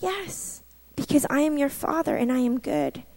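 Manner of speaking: soft, reassuring answer as God; hushed, assured fatherly reply; still small voice. Retold or imitated. God answering a doubting daughter as her Father, softly. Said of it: "this still small voice of the Lord".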